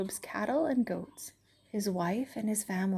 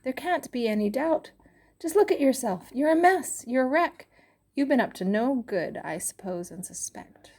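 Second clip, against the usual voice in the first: accusing friend; 5 semitones higher than usual. Acted. Eliphaz accuses Job.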